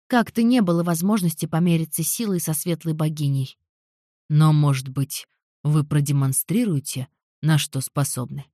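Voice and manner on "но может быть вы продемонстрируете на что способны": tempting. Acted. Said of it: "прозвучал весьма искушающе".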